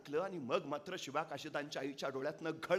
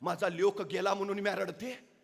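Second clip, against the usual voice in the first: high, loud defiant lament; mother wishing she had more sons to give; fierce proud mother; 5 semitones higher, 8 dB louder than usual. Acted. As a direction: fire back at the king with pride. तशी ताडकन ... म्हणाली.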